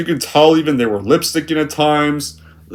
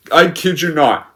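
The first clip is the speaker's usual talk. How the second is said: ordinary talk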